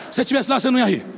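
ordinary delivery

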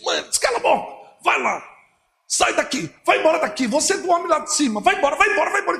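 high, urgent pleading voice; frantic son. Retold or imitated. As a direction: push her out fast and high. Son urgently shouting at his mother.

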